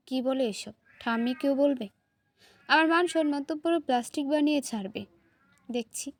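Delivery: usual speaking voice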